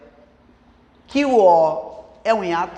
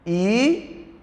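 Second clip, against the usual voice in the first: "Itaú" split into separate syllables with long pauses. Shown as a demonstration. Teacher showing the syllable division, "Itaú" in separated syllables. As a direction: say "Itaú" slowly, pausing after each syllable. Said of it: "como é a separação?".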